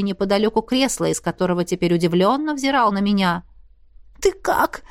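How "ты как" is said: high, near-tearful question; the heroine asks her beaten lover, nearly crying; almost crying. A narrator's reading. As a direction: ask it holding back tears. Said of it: "почти плача спросила я".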